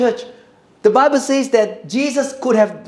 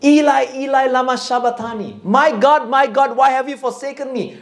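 crying out; 3 semitones higher than usual. Acted. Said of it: "He cried out".

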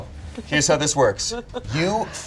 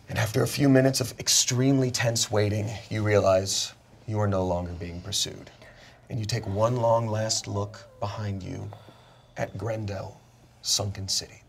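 lower, soft closing narration; solemn narration; 4 semitones lower, 6 dB quieter than usual. Acted. Game master closes the escape scene.

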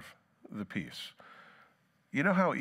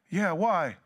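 higher, louder startled answer; defensive reply; 7 semitones higher, 5 dB louder than usual. Acted. Touchy person answering the asker, startled and defensive. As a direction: snap back defensively.

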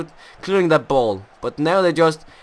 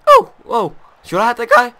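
loud exclamation with voice cracking; 7 semitones higher, 9 dB louder than usual. Real, not acted. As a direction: let the voice crack as it rises. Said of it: "I'm sorry for my voice cracking".

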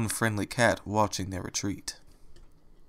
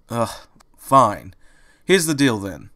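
quickly; 4 dB louder, slower than usual. Acted. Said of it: "he said quickly".

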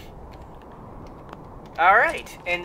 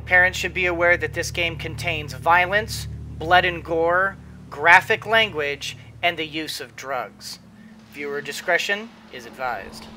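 formal rating announcer read; 3 semitones lower than usual. Acted. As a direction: read it like a game rating warning.

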